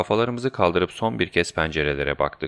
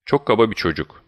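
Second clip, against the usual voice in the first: higher-pitched, mildly angry complaint; indignant; 5 semitones higher, 3 dB louder than usual. Acted. Guide offended by the rude student, mildly indignant. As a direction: let some offended anger show. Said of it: "öfkeden kıpkırmızı kesilmiş bir halde".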